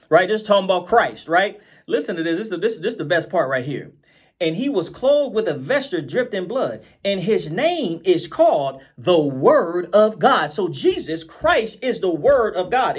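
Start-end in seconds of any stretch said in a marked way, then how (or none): 4.4-10.5 slow, low reading voice; preacher reading from the Bible; solemn scripture reading. Acted. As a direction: read the verse slowly and weightily.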